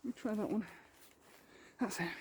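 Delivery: breathless after the climb; panting between words; out of breath. Real, not acted. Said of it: "a little bit out of breath".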